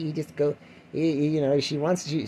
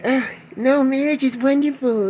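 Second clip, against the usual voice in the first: mock sarcastic praise; 11 semitones higher, 7 dB louder than usual. Stereotypical married person quote.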